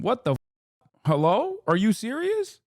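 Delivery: are you kidding me, said half laughing in shock; disbelieving. Real, not acted. Streamer answering a viewer's accusation, stunned disbelief.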